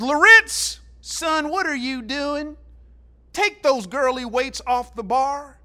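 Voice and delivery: loud gruff coach bellow across the weight room; coach yelling. Retold or imitated. Old coach yells at freshman in the weight room, loud bellow. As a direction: bark it like a football coach calling out a kid. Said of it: "He's yelling in front of this jam-packed".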